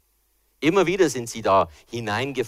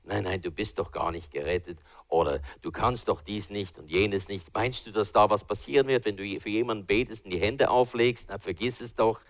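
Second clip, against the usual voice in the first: whispering devil; 2 semitones lower than usual. Retold or imitated. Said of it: "wie der Teufel oftmals kommt und sagt".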